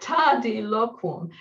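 "tardi loquum" slowly, each syllable held long; slow, deliberate sounding-out of "tardi loquum"; drawn-out syllables. Shown as a demonstration. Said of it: "four long syllables together, which you literally can't say quickly".

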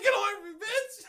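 high, laughing hammed-up shriek; mock shriek. Peter shoves Aunt May away, laughing shriek. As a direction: shriek it at her, cracking up. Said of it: "He's like".

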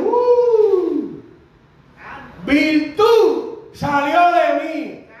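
high startled gasp, then slow words; a touch of an awed Jesus; Jesus feeling power. Acted. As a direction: let the realization dawn slowly. Jesus voiced feeling power leave.

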